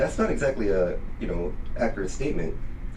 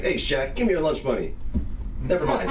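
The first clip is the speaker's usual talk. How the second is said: mock bully; 8 semitones higher than usual. Bully confronting giant Shaq.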